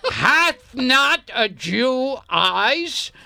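slow, grand stage delivery; Shakespearean declaiming. Pretend. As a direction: declaim it like King Lear. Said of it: "One more time, please".

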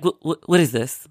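stammering, mildly disgusted mother; retold disgust. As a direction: imitate a mother baffled and put off, tripping on "what". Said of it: "She's disgusted".

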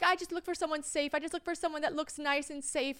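high, lightly put-on German accent; imitated German accent. Stranger explaining why she chose this traveller, imitated German accent. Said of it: "she definitely had a thick accent".

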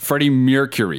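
surname botched as "MYUR-kyur-ee"; mispronounced name. Real, not acted. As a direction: trip over the surname, glide slipping into the first syllable. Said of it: "I can't say his name".

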